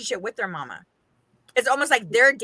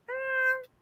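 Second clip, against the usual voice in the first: higher, loud, fast, put-out complaint; mock-offended, rush it out; annoyed retort; 9 semitones higher, 5 dB louder than usual. Annoyed girlfriend retort, retold.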